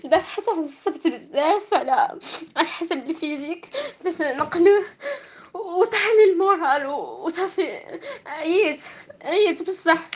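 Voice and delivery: tearful, slowing and fading; worn-out sob in the voice; angry crying. Real, not acted. Recounting frustration while crying.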